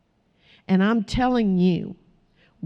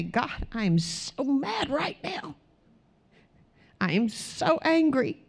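hushed prayer; 4 semitones higher, 6 dB quieter, slower than usual. Pretend. Sample prayer when mad.

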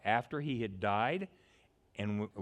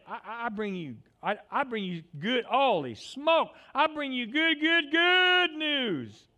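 高く大きく、最後は伸ばして叫ぶ; 「good news」を長く引き伸ばして叫ぶ; ecstatic angel shout; 12 semitones higher, 8 dB louder than usual. Acted. Excited angel voice, building shout.

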